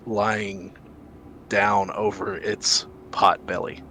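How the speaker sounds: measured, descriptive narration with pauses; game master's scene setting. Acted. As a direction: unveil the creature piece by piece.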